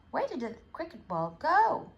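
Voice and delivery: cricket player voice. Acted. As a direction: call out like a player searching.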